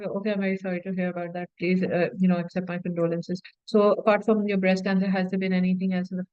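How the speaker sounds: rushed, hollow sympathy rattled off fast and a bit low; insincere doctor. Shown as a demonstration. Doctor brushing past a patient's grief, fast and insincere. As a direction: recite the condolences like a box to tick, quickly. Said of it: "if you're gonna talk like that, it doesn't look sincere".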